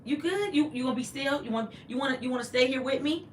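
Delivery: high, coaxing voice to a pet; pet talk. Real, not acted. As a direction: sweet-talk the dog to sit still. Baby-talking to her pet.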